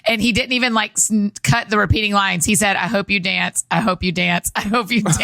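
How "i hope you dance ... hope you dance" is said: monotone. Retold or imitated. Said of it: "in a monotone voice".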